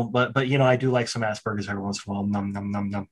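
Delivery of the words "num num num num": mock munching. Jokes about eating, mimes munching.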